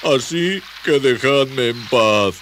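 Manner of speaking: slow, high, loud lament; tearful wail. Acted. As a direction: moan it out, dragging the words. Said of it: "lloriqueó el desconocido".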